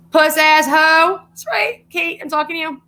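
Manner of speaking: sing-song insult aimed at a rival; mock taunting voice.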